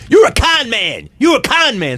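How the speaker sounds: high, drawn-out mock scream; imitated screaming. Mother accusing him at the wedding, imitated screaming. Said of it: "the mother started screaming".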